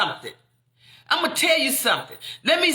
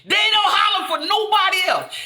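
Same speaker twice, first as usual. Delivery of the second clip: ordinary talk, nothing marked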